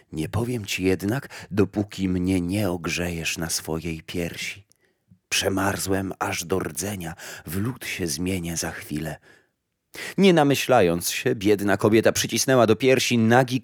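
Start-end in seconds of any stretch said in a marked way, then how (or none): 0.1-9.2 a lightly voiced, softer freezing bush; frozen thorn bush. Freezing bush begs the mother for warmth, softly. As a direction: murmur like a bush frozen to the core.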